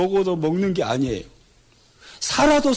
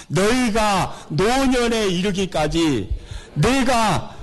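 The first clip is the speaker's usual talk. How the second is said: slow, solemn scripture reading; slower than usual. Acted. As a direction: read the verse slowly and weightily. (느리고 장엄한 성경 낭독)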